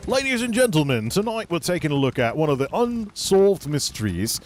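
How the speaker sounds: botched mock British TV host; a loose, off-target British presenter accent; Lloyd Grossman gone wrong. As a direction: intro it like a failed TV presenter. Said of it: "That's like Lloyd Grossman gone wrong".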